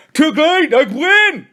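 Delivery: put-on triumphant kid shout; gleeful yell. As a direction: crow with a mouth full of worm. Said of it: "yelled Billy, still chewing".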